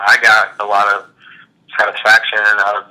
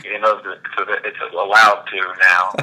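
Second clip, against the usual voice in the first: deadpan. Retold or imitated. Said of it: "in his sort of deadpan voice".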